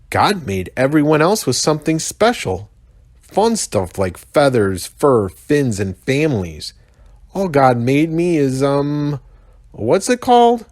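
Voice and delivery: high put-on young rhino voice, searching for a word; whiny kid rhino groping for the word; Mac the rhino muttering.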